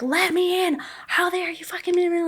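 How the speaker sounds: high, outraged demand to be let in; retold screaming. Wife demanding her husband let her into his truck, retold high and outraged. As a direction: pound the glass and demand he open up. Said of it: "I'm screaming and yelling".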